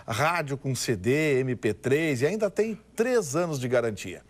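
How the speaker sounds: upbeat car dealer ad read; booming prize announcer. Acted. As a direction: sell it like a radio pitchman. (locutor de anúncio animado)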